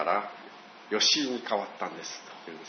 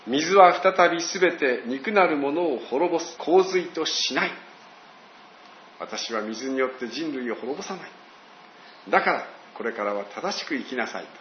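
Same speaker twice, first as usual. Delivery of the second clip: measured, solemn voice of God; a hint of a solemn divine voice; God speaking; 3 semitones higher than usual. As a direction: speak as God making a promise. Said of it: "神様はこうおっしゃったんです".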